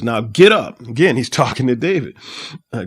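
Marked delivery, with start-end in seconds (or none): 0.0-0.8 sharp, louder order to get up; firm command. Acted. Joab ordering the grieving king to rise, firm command. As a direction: order the king to his feet. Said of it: "this is what Joab says".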